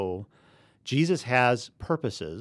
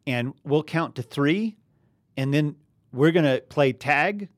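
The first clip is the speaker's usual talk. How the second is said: put-on kid on playground; 3 semitones higher, 7 dB louder than usual. Host mimicking playground children, high and loud. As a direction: play an excited kid organizing a game. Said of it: "when kids are on a playground, they'll say".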